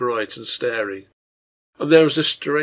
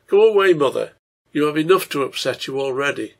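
upset father; 2 semitones higher, 6 dB louder than usual. Acted. Father sends distressed wife away.

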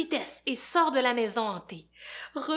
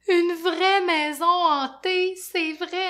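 put-on higher, louder, slow delighted child voice; Fafounet, thrilled; 8 semitones higher, 8 dB louder than usual. Little Fafounet delighted by the haunted house. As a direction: savour the haunted house with glee.

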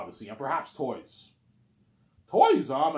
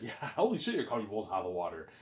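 laughing, stunned disbelief; a mock-amazed gasp of a reaction with a laugh; shocked; 5 semitones lower, 4 dB quieter than usual. The speaker reacting to the huge budget, mock shocked. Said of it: "he's shocked".

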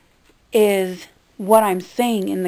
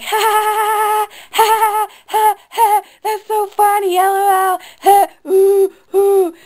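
very high, loud fake laughing; hammed-up squealing ha-ha-has; mock hysterical laughter; 11 semitones higher, 9 dB louder, slower than usual. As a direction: imitate a crowd finding it hilarious. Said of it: "everyone's like".

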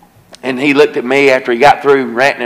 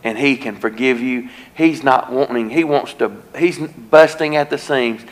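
tender plea; 4 dB quieter than usual. Retold or imitated. Preacher gently pleading with the weeping man to accept forgiveness, soft and tender. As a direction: gently urge him toward forgiveness.

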